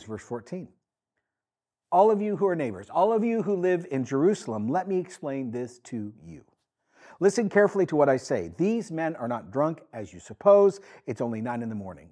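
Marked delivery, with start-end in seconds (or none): 1.9-12.1 a preacher calling out to the crowd; Peter preaching. Acted. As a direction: address the crowd, urgent.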